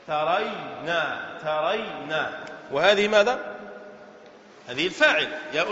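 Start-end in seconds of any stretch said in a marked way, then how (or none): 0.1-2.4 lower, drawn-out "ترينا", said twice; slow word demo. Shown as a demonstration. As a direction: stretch the syllables in a lower voice. Teacher repeats the form slowly. (نطق بطيء ممدود بصوت منخفض)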